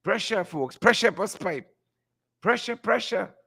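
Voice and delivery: a hint of a character impression; Crab Man. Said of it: "in my best Crab Man voice".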